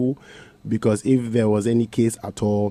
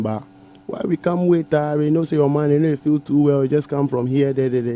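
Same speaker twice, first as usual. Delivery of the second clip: Chief's complaint in pidgin, pitched higher; retold Chief's complaint; 5 semitones higher than usual. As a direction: lightly voice the Chief's grumbling question. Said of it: "Chief asked him".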